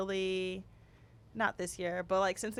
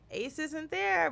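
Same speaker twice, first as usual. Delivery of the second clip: put-on higher, slow, spelling it out for a toddler; slow patient explaining; 6 semitones higher, slower than usual. Mother to toddler, slow and higher. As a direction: mom slowly tells her little son ace isn't there, higher and drawn out. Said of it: "And I was like".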